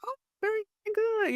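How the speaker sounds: high-pitched mock approval; imitating approving local. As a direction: mimic a pleased local, voice lifted well up. Mimicking locals approving her answer.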